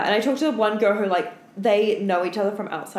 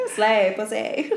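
laughing hype; slower than usual. Real, not acted. Hyping friend, laughing.

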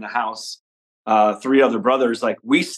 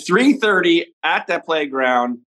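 lightly voiced stepdad, slow and higher; deliberate, slightly raised parental instruction; stepdad giving instructions; 5 semitones higher, slower than usual. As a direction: spell out the plan slowly, like a parent. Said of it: "so he would say".

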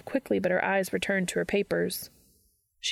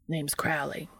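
put-on English accent; 4 semitones lower, 5 dB quieter than usual. A narrator's reading. Crowley introduces himself to Dean, English accent. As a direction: lower English-accented character voice. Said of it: "annoying English accent over there".

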